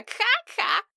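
exaggerated fake cough; mock cough. Boy teasing sick girl with a fake cough. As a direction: cough it out as a tease.

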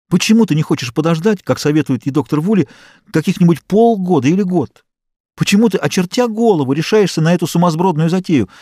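a hint of a desperate mother arguing with her stubborn daughter; upset mother. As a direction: plead and accuse at once, rising in distress. Distressed mother reproaching her daughter.

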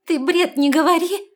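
loud, high angry snarl; growling. A narrator's reading. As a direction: snap at him with a growl. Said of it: "С рычанием начала Лестра". (громкий сердитый рык)

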